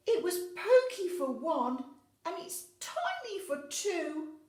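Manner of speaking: put-on very high, loud, slow despairing old woman; distressed old lady. Old lady crying out over her crowded house, high despairing voice. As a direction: cry out in cramped despair. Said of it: "The little old lady cried".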